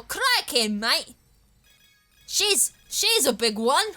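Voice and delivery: hammed-up Australian wildlife-show exclamation; broad mock Aussie, high and drawn out; stereotype Aussie. Gamer mocking Aussie stereotypes, exaggerated Australian accent. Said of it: "what's with the stereotypes".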